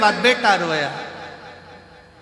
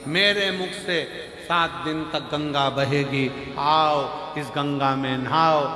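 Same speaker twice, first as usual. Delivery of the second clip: preaching holy man; 3 semitones lower, slower than usual. Acted. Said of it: "महाराज जी प्रवचन में बार बार".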